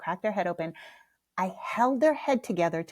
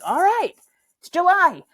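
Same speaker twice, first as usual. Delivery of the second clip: much higher and louder, incredulous; high, loud disbelief at the timing; baffled; 11 semitones higher, 10 dB louder than usual. Retold or imitated. Mother caught off guard by her kid's question in July, baffled.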